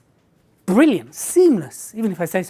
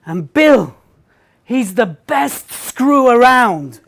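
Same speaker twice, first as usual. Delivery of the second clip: slow slip of the tongue; 3 dB louder, much slower than usual. Retold or imitated. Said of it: "And I went".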